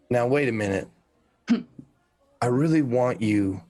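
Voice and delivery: loom over them and demand the truth; big scary voice. Acted. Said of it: "Ooh, big, scary voice".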